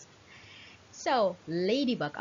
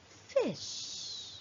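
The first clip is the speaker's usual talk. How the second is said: whisper; 8 semitones higher, 10 dB quieter than usual. Shown as a demonstration. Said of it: "teacher whispers word to class".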